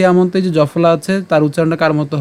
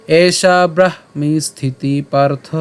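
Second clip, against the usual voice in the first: slow, measured Sanskrit shloka reading; verse recitation; much slower than usual. Shown as a demonstration. Teacher presents today's shloka to learners, slow recitation. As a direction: recite each word slowly and distinctly. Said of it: "শুরু করে পাঠ করি".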